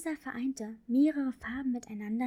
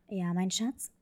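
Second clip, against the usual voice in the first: father voice; 4 semitones lower, slower than usual. Acted. Father answers his daughter at bedtime.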